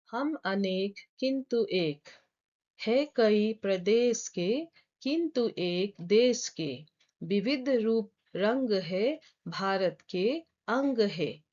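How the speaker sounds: slow, measured verse recital; poem recitation. Acted. Teacher reciting a Hindi poem for channel viewers, slow measured recitation. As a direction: recite the verse slowly, phrase by phrase.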